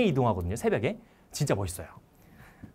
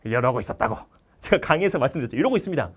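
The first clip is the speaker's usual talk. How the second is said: ordinary talk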